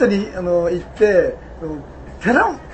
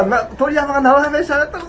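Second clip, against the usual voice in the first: quick, higher-pitched mock taunt; retold jeering; 6 semitones higher than usual. Co-workers razz the lone local for his dialect, quick jeer. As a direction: imitate a crowd teasing a workmate. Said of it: "はやしてたから".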